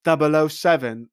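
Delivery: put-on "double oh seven" in a loose, generic British accent; a half-hearted British accent on "double oh seven". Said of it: "any British accent".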